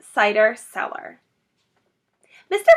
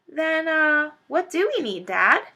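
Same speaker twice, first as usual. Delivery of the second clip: small fox voice; 7 semitones higher than usual. Acted. Little fox asks father.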